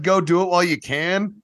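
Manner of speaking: high-pitched, eager encouragement; kid's earnest response. Retold or imitated. Kid answering an old man, earnest and high-pitched. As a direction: imitate an earnest kid cheering him on. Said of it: "that kid's genuine response".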